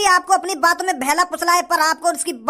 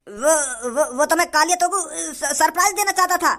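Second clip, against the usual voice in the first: halting, made-up excuse; nervous stammer. Acted. Candidate claiming a surprise for Kalia, nervous stammer. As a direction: trip over words while placating.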